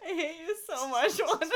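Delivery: high, loud protest through laughter; helpless giggly outburst; laughing mock complaint. Real, not acted. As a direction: complain while cracking up. Reader cracking up, mock complaint.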